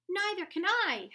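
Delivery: high, loud frightened howl. A narrator's reading. Flitter howls back in the dark, scared. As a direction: wail it out in fear. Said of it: "howled Flitter".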